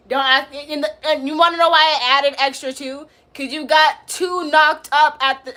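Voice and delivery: loud mocking rant at commenter; heated roast. Real, not acted. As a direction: keep the loud roast going. Roasting viewer B Steel.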